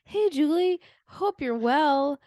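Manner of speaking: oblivious, casual chirpy impression; mock nonchalant. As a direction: imitate someone chatting as if nothing happened. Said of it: "he just so nonchalantly was like".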